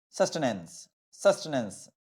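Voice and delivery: సస్టెనెన్స్ stressed at the start, falling away; shifted word stress. Shown as a demonstration. Teacher demonstrating the derived word, stress on first syllable of సస్టెనెన్స్. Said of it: "అని చెప్పి మనం అంటాం".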